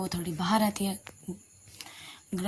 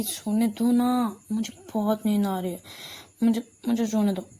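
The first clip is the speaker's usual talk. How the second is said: sleepy whine; 4 dB louder than usual. Acted. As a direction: beg to keep sleeping. Sleepy girl refusing to wake.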